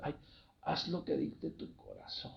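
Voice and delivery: breathy, hushed, pious, sanctimonious guru-like whisper. Imitating what a spiritual leader would say, mock-pious spiritual tone. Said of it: "Así luego con ese tono, ¿no? Para, como para darle un poquito más de espiritualidad".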